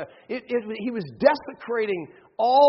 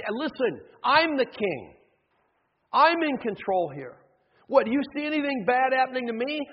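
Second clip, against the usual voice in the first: higher and louder, proud and defiant; arrogant boasting king; 5 semitones higher, 4 dB louder than usual. Retold or imitated. King Manasseh boasting loudly at the begging prophets, defiant. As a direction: throw it back at them like a king who answers to no one.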